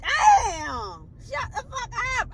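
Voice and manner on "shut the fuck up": muttered retort. Retold or imitated. Annoyed retort under breath.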